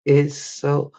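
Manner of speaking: slow, drawn-out lines from a worn-out voice; straining to get words out after the voice ran off; voice gone. Real, not acted. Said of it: "I'm whispering now 'cause my voice gone".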